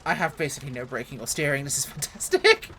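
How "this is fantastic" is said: 1 sarcastic laugh. Real, not acted. Sarcastic at broken steering.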